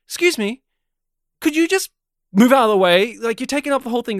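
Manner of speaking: annoyed woman. Retold or imitated. Woman blocked on the footpath by teenage boys, mock annoyed. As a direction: retell her irritated request to move. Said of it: "she got very annoyed with them".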